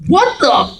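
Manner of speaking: high, loud with a laugh; laughing shock. Retold or imitated. Co-star freaking out over Prince Zuko, laughing and high. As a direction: gasp it out through laughter. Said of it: "He goes".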